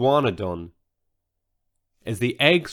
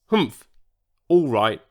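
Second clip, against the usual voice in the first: grunted. Acted. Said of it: "grunted George".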